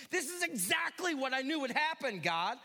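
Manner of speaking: mild mock complaint to God; ticked off. Jonah grumbling at God, mildly indignant. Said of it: "he's still ticked".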